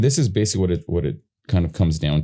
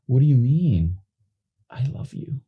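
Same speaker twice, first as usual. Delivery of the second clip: overwrought mock emotional delivery; hammed-up squishy-face actor; squishy face acting; 6 semitones higher than usual. Shown as a demonstration. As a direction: squeeze out a fake tender line. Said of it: "talks about squishy face".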